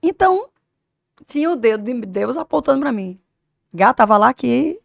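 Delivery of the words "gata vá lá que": higher and much louder, cheering her on; eager call that it's her turn; excited encouragement. Retold or imitated. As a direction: hype her up like a coach. Voicing God's encouragement.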